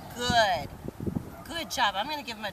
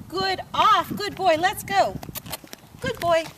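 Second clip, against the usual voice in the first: high praise; 6 semitones higher, 3 dB louder than usual. Real, not acted. Praising dog after off.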